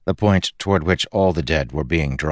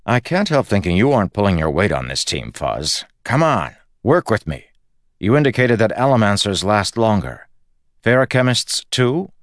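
slightly raised, prodding team-leader voice; lightly voiced coaxing Kelsier; 4 semitones higher, 3 dB louder than usual. Kelsier prodding Fuzz to help the team, mildly insistent. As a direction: nudge a reluctant teammate, a bit insistent.

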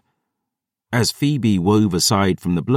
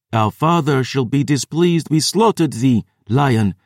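higher-pitched, archaic vampire voice; vampire villain; 5 semitones higher than usual. A narrator's reading. Vampire sister addressing the captured lion, haughty villain voice. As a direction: speak as a haughty ancient vampire.

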